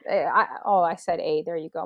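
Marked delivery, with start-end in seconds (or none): 1.2-1.4 Canadian "A" sound; a light Canadian accent. Shown as a demonstration. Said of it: "My Canadian accent".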